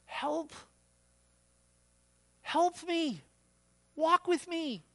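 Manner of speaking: high, urgent plea; pleading. Acted. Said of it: "are pleading with you".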